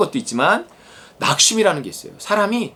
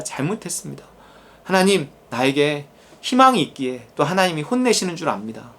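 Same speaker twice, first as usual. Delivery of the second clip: humble prayer. Acted. Preacher modeling a proper repentant prayer, hushed and humble.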